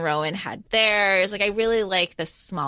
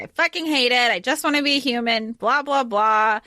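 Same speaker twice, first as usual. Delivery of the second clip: raised, mock-whiny griping; mocking complaint; 4 semitones higher, 3 dB louder than usual. Mimicking her lifelong wish to be human, mocking complaint. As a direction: rattle off someone's complaint dismissively, pitched up.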